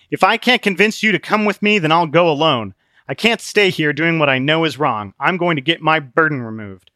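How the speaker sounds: pleading friend to come along, firm; Christian, earnest. Acted. Christian tells Obstinate he'll go alone.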